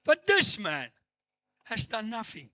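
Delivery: preacher reading out with weighty pauses; emphatic scripture reading. Acted. Preacher reads the crucified thief's words to the church, emphatic. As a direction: declaim the verse in measured phrases.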